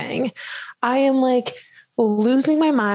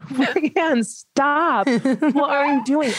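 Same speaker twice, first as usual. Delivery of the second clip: higher, mock-alarmed friend; friend's alarm; 5 semitones higher, much slower than usual. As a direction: play the shocked friend, lightly. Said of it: "Missy is like".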